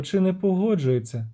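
lightly lilting siren question; siren's singsong question. Acted. Siren asks whether the man agrees, lilting. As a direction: ask it with a light sing-song lift. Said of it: "заспівала вона".

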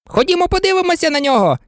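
high, fast, eager call. A narrator's reading. Twin eagerly calls Alice to come see the King, high and fast. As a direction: hurry them along, high and quick. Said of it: "крикнув близнюк".

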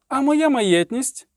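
high, drawn-out protesting cry; poet's shout. A narrator's reading. Poet demanding his property, high protesting shout. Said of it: "крикнув Любисток".

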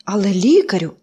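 mild worried cry. Acted. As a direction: call out in concern. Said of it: "стурбовано вигукнув".

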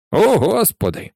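a high, awed cry of disbelief; astonished barman calling out; astonished exclamation. A narrator's reading. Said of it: "вигукнув бармен".

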